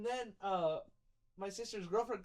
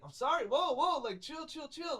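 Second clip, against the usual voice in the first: retold placating; 5 semitones higher, 3 dB louder than usual. Placating the yelling stripper.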